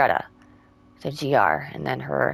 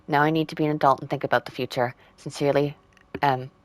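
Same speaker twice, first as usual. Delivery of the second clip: even, measured farewell-letter reading; reading a letter aloud. Acted. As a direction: read the break-up letter out clearly.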